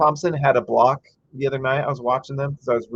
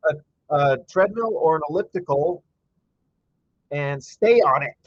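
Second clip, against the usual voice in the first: little rant; 3 semitones higher than usual. Real, not acted. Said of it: "There's my little rant".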